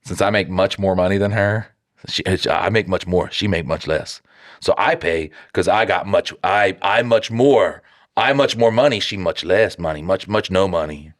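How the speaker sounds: half-hearted caveman talk. Retold or imitated. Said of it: "Now you're sounding racist".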